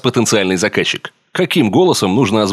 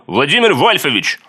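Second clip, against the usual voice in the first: Vladimir Volfovich parody; 6 semitones higher than usual. Shown as a demonstration. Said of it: "пародия на известную личность".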